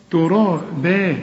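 ترابا with a light, thin ba; slow recited ترابا. Shown as a demonstration. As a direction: say ترابا keeping the ba unemphatic. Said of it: "إنما الباء مرققة".

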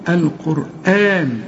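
القرآن with the hamza held long, slow; stretched hamza. Shown as a demonstration. Teacher showing the student the madd in القرآن. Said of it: "تمد الهمزة دي".

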